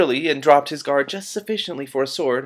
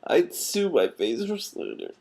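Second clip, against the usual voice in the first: I'd sue my face for slander, drawn out, higher and slower; slower, higher retake; 7 semitones higher, slower than usual. Shown as a demonstration. Reader redoing the Patrician's quip, slower and higher. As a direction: lean on sue and let it fall. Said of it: "retake of the line".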